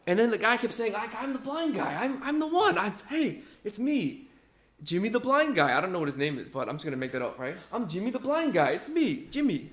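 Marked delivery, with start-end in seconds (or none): 0.9-5.8 high, excited it's-me voice with a laugh; eager insistence. Retold or imitated. Healed man telling neighbors it's really him, high and eager. 7.7-9.7 high, excited it's-me voice with a laugh; eager insistence. Retold or imitated. Healed man telling neighbors it's really him, high and eager.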